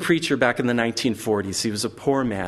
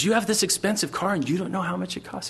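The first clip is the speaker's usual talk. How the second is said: higher-pitched disbelieving question; mock incredulous kid; 7 semitones higher than usual. Kid questioning the owner of an expensive car, acted disbelief. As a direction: act a kid amazed at the answer. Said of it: "And he goes".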